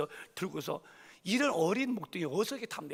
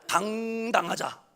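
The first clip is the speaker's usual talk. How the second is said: 당당하자 said slowly and louder; louder proclamation; 4 semitones higher, 6 dB louder, much slower than usual. Shown as a demonstration. Preacher repeats 당당하자 louder to rally the church.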